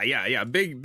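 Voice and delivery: ordinary talk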